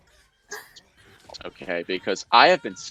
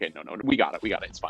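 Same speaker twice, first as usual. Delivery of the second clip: woozy; 6 semitones lower, 5 dB quieter, much faster than usual. Retold or imitated. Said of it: "but then I was woozy".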